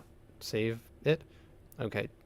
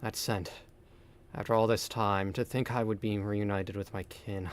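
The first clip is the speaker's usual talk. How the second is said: solemn NPC voice. Acted. Reads NPC dialogue in voice.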